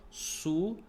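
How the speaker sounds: syllables pulled well apart; separated syllables. Shown as a demonstration. Teacher proving the vowels sit apart, syllable by syllable. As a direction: say it SU, A, DO with clear gaps.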